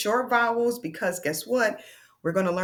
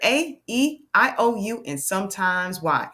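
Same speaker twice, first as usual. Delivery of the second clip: faster. Shown as a demonstration. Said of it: "Say it faster".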